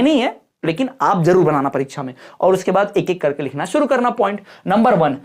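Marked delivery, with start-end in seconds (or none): none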